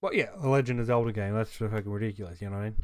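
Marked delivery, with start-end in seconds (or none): 1.3-2.8 words stretched through a yawn. Real, not acted. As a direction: talk mid-yawn. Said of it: "Sorry, I'm yawning".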